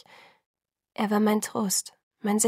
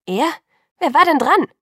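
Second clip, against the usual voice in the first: indignant demand; 7 semitones higher, 8 dB louder than usual. Acted. Bella furious, demanding to know.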